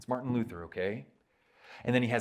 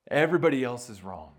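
louder, punched everybody; emphatic restatement; 7 dB louder than usual. Shown as a demonstration. Preacher drives home Luther's claim, loud. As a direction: hit Everybody hard and loud.

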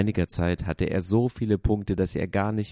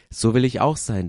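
longing wish; 6 semitones higher, 6 dB louder than usual. A narrator's reading. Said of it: "dachte Punchinello".

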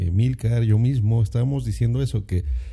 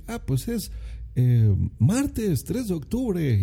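slow, higher, over-precise reply like a stilted announcer; overly formal answer; 6 semitones higher, slower than usual. Shown as a demonstration. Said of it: "No, o sea, dices".

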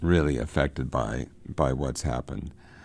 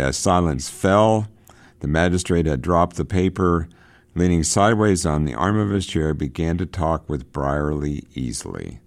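a touch louder and brighter, reading the novel to the class; reading aloud; 2 semitones higher, 5 dB louder than usual. Acted. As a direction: read the passage out for students. Reads novel passage aloud.

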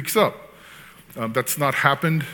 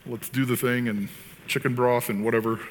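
resigned parent; 4 dB quieter than usual. Acted. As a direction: go through the home remedies half-heartedly. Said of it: "that doesn't work in my house".

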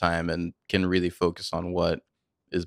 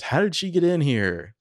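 higher-pitched mock outrage; angry demand; 9 semitones higher, 4 dB louder than usual. Podcaster voicing a father rattled by the recording, angry demand. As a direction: demand it like an imitated agitated father.

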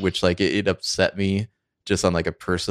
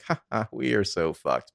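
lightly imitated, good-natured defeat; a mock chuckle, too nice to be angry; not really mad; 2 semitones higher, 3 dB quieter than usual. Too-nice villain finding out he's busted, mildly amused. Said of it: "he's not even really mad about it".

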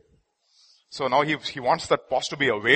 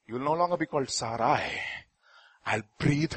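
gentle God; 3 semitones lower than usual. Acted. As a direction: speak tenderly as God to Sarai. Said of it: "God came and said".

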